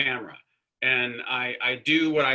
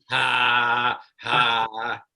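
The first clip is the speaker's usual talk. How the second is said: mock laugh; 3 semitones lower, 5 dB louder than usual. Actor imitates co-host laughing at the console, mock laugh. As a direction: fake laugh. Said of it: "when you were at the console going".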